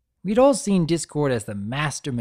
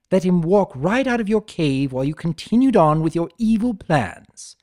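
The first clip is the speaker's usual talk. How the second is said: lightly raised, lively trickster lecturing a prisoner; a hint of Discord scolding the villain, a bit higher and louder; 5 semitones higher, 5 dB louder than usual. Discord chiding Tirek for abandoning his brother, lightly voiced trickster.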